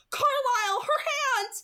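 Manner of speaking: high, loud, frightened cry. A narrator's reading. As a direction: call the doctor in fright. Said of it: "His voice was frightened".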